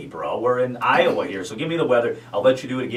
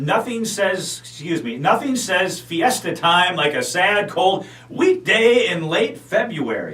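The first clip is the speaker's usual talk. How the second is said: slow deliberate; 4 semitones higher, slower than usual. Acted. DJ talking through beeps.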